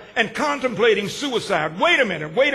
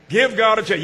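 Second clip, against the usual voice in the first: firm call; 3 dB louder than usual. Shown as a demonstration.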